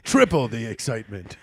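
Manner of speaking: low deep trailer voiceover; movie trailer voice. Pretend. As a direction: announce it like an epic film trailer. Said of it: "the Pablo Francisco outro".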